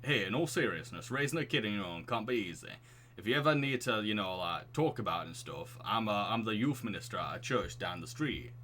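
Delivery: earnest offer in put-on Northern English; hesitant, sincere Northern English neighbour; lightly acted Northern accent. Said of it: "Why is the Northern accent fitting him".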